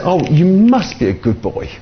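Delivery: high, emphatic mock admiration; high-pitched acted praise; gushing praise. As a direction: imitate a grateful woman, leaning on must. Acts grateful woman praising young man.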